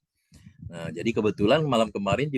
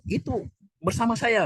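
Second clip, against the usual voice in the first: much higher assurance; imitating the Arab man; 13 semitones higher than usual. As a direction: vouch for Jen again. Arab man vouches again. (menirukan orang Arab menjamin, suara tinggi)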